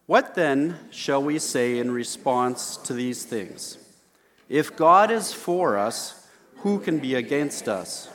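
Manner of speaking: slow, measured public reading; scripture reading. Acted. Pastor reading Romans aloud with the congregation, measured. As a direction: read it out with the church, unhurried.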